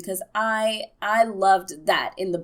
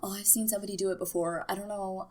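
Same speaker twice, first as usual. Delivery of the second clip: mock unsure Melisandre; 9 dB quieter, faster than usual. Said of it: "she's like".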